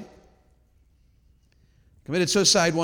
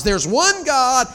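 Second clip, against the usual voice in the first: "one" drawn out slow, high and loud; stress on one; 6 semitones higher, 6 dB louder, much slower than usual. Acted. Preacher to congregation, "one" stretched slowly. Preacher declaring his main point.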